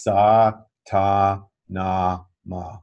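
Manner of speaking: sa, ta, na, ma said slowly and evenly, one syllable per finger; mantra syllables. Shown as a demonstration. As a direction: demonstrate each syllable of the mantra clearly. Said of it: "so that one is".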